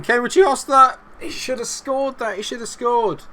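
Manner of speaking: high, agitated protest; exasperated outcry. Real, not acted. Gamer reacting to a chance that should have scored, exasperated. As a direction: pitch leaps up in disbelief.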